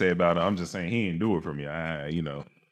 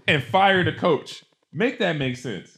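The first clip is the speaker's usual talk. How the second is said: higher-pitched, drawn-out indignation; indignant arguing; 8 semitones higher, slower than usual. Real, not acted. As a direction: press the point in disbelief. Heated argument over fired coach.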